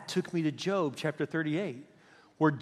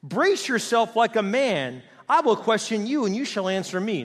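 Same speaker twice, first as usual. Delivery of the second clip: God challenging Job; 3 semitones higher, 3 dB louder than usual. Acted. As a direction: square up and demand an answer. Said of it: "He said".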